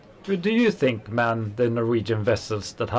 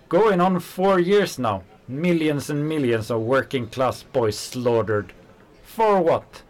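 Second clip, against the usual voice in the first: rising outrage; 5 semitones higher than usual. Acted. Worker ranting at his friend about the war, outraged. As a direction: voice climbs high with indignation.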